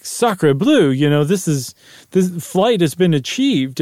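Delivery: put-on French accent. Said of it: "the French to be like".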